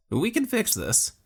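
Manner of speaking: cling to hope for your friend; young Luque, desperate. A narrator's reading. Young man begging his dying friend, high and urgent.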